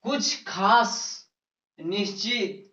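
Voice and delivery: slow, with pauses between phrases; slow rule dictation. Real, not acted. Teacher giving the class a grammar rule, slow dictation. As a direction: dictate it piece by piece, unhurried.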